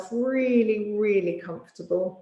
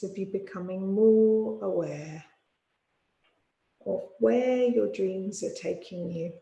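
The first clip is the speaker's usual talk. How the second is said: guided meditation. Real, not acted. Yoga teacher settling listeners for sleep, calm guided meditation. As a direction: ease them toward sleep, unhurried, phrase by phrase.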